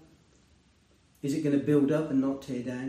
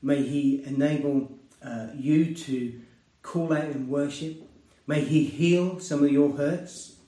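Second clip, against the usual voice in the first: pastoral blessing. Acted. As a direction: pronounce a blessing over the listeners. Closing blessing over congregation.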